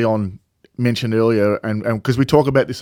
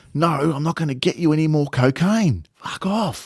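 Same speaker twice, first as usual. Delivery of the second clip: mock yell at full voice, high and drawn-out; 5 semitones higher than usual. Retelling what Ricky Nixon yelled at a girl in a bar: imitating Ricky Nixon yelling at the top of his voice. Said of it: "yelled out at the top of his voice".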